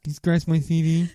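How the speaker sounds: put-on comic character; film-quote voice. Quoting The Ringer to the co-host, comic character voice. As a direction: whine it like a silly movie character.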